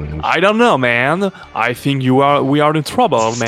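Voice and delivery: nasal, hammy radio chatter; a cartoonish pilot talking through the nose; nasal caricature voice. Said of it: "des voix bien caricaturales, tu vois, qui parlaient bien du nez".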